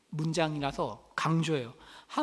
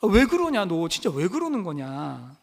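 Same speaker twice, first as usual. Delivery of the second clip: exasperated reproach; 4 dB louder than usual. Acted. Coworkers scold Mordecai day after day, acted exasperated reproach. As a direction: nag a stubborn coworker in mock exasperation. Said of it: "날마다 안 할 때마다 책망을 한 거죠".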